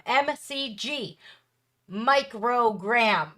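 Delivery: M C G spelled out letter by letter, then microgram said slowly. Shown as a demonstration. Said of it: "It's measured in the microgram".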